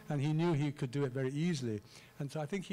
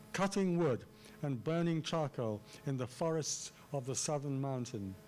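each key word stressed: CUTTING, WOOD, BURNING, CHARCOAL, FORESTS, SOUTHERN, MOUNTAIN; emphatic artificial reading. Shown as a demonstration. Lecturer demonstrating seven stresses in a line, emphatic reading. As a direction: land hard on "Cutting wood", then keep seven measured beats through "mountain". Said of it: "read it in a rather artificial way".

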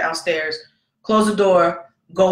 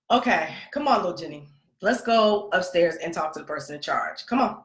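put-on soft, lower sweet coaxing to a child; forced sweetness; 3 semitones lower, 3 dB quieter than usual. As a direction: coax a kid you'd rather yell at. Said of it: "he's somebody else's child".

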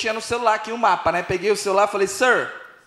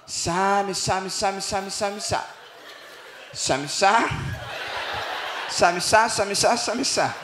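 soft mumbled fake English; garbled English as heard; 4 semitones lower, 7 dB quieter, much slower than usual. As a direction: mimic foreign speech as meaningless syllables. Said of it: "Que era assim que eu entendia". (imitando inglês incompreensível)

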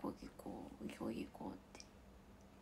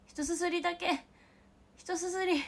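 higher, louder whiny begging; higher, louder playful whine for a slurp; pleading craving; 7 semitones higher, 5 dB louder than usual. Real, not acted. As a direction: beg for just one slurp.

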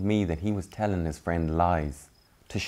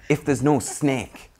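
scolding meerkats; 7 semitones higher, 4 dB louder, slower than usual. Acted. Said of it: "said the other meerkats".

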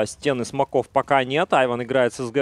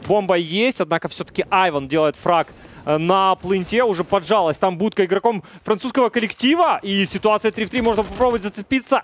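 excited; 5 semitones higher than usual. Real, not acted. Caster building up during clutch.

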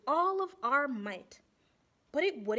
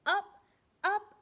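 rising excitement; 7 semitones higher, 5 dB louder than usual. A narrator's reading. Narrating rising magma.

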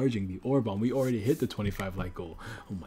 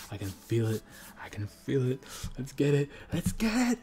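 building hype; 5 semitones higher than usual. Real, not acted. Building hype before a pull.

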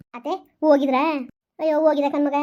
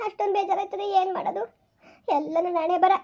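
deep sorrow; 3 semitones higher than usual. Acted. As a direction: let the grief break the voice down. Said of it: "ಯಾಕೆ ಹಿಂಗೆ ಇಷ್ಟೊಂದು ಬೇಜಾರು".

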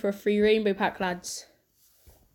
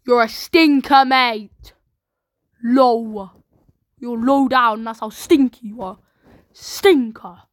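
loud playful taunt at the card; mock scolding; 6 dB louder, slower than usual. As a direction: tell off the bad card like a mate. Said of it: "that's a bit of a stinker".

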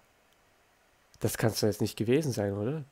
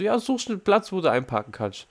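much higher mock instructor; instructor's order; 8 semitones higher than usual. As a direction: toss off the instruction in a high silly voice. Fahrlehrer nachgemacht. (viel höher nachgeäffter Fahrlehrer)

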